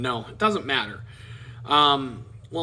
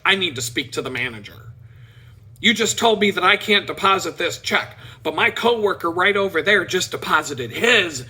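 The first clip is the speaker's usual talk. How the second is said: curt demand. Retold or imitated. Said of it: "she gets really curt with one of the tellers".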